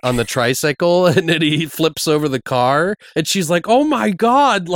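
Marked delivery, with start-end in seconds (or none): 3.7-4.7 high, drawn-out laughing cry; mock horror. Co-host retells driver hitting the kid, mock horror. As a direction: imitate a shocked driver, cracking up.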